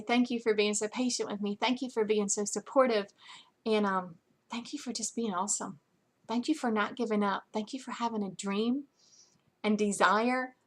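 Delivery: soft, sincere gratitude to the team; heartfelt thanks. Retold or imitated. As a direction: thank them as if hugging them. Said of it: "hug you and say".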